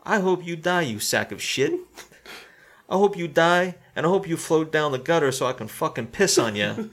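mock angry yelling; hammed-up furious curse; retold curse. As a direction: spit out a hateful curse. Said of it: "he goes".

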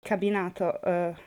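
groping for the English word; trying word after word; translating in head. Real, not acted. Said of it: "I don't know the word in English".

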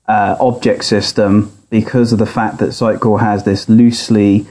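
tinny audio through laptop speaker; thin, boxy speaker sound. Real, not acted. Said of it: "recorded from his laptop speaker".

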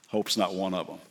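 low, soft Hope's not; hushed refrain. Shown as a demonstration. Preacher repeating the refrain to the congregation, low and soft. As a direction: speak it quietly, with weight. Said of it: "repeated refrain".

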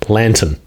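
"Lantern" with no R, LAN-tuhn; Australian pronunciation. Shown as a demonstration. Australian coaches host on the word, "Lantern" as LAN-tuhn. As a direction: model "Lantern" clearly the Australian way, ending in tuhn. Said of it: "say lantern how you would in an Australian accent".

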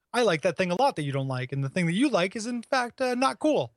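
goofy dimwit voice, pitch climbing; dumb guy voice. Retold or imitated. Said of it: "I didn't mean to do the dumb guy voice for that".

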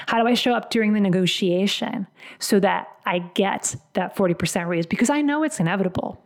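mildly voiced self-assurance; acted certainty. Coach voicing a client sure of the raise, acted certainty. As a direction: state it as a settled fact. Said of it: "they knew it was inevitable".

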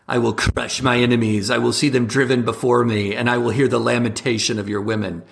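lightly voiced barbarian warlord boast; a hint of Conan's grand boast. Mocking the left, a lightly voiced Conan boast. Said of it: "in full Conan voice".

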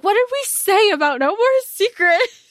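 high mock scold; scolding friends. Friends scolding Nari with a high mock scold. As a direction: chide her for keeping secrets.

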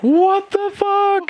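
high, shocked outburst of disbelief. Acted. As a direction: blurt it out high and stunned. NPCs shocked at friend's death.

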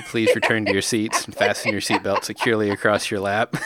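deadpan in-flight announcement; flight attendant. Pretend. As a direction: read it like a cabin PA. Mock cabin announcement.

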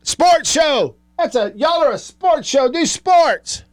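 high whiny complaining voice; mock a whining listener; whiny caller. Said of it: "who will say".

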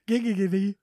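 drawn-out cartoon catchphrase; Quagmire. Host echoing co-host's impression while laughing, Quagmire catchphrase. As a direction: stretch out the mock catchphrase slowly. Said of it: "It's our famous catchphrase".

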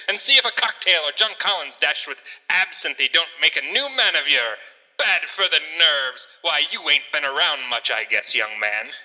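lightly voiced old-timey barman; a touch of a cocky 1880s bartender. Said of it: "in your old-timiest of voices".

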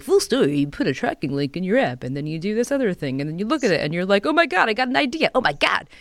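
hyped movie trailer pitch. Acted. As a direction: sell it like a cheesy commercial. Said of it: "And I'm doing John Travolta".

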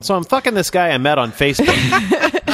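laughing mock joke.

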